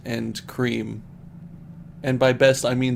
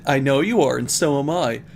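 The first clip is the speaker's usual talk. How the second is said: re-read line; 5 dB louder than usual. Shown as a demonstration. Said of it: "Why does it sound like".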